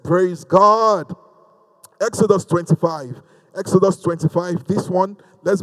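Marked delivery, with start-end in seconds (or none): 0.0-1.1 drawn-out rallying "Praise God"; insistent congregational call. Real, not acted. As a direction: call it out for a response. Repeats call to get response.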